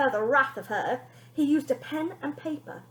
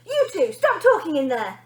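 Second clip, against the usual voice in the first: booming; 4 semitones higher, 7 dB louder than usual. Acted. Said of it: "boomed Bonnie".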